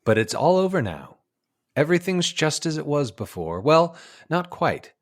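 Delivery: measured documentary storyteller; nature film narration. Acted. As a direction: narrate it like an old wildlife film. Recites the film's narration.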